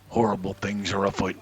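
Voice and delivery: booming news doomsayer voice; alarmist doom warning. Pretend. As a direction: announce it like the world is ending. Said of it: "in their greatest doomsayer voice".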